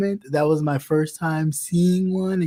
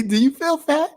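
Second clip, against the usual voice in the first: matter-of-fact friend; 3 semitones higher than usual. Retold or imitated. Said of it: "That's me".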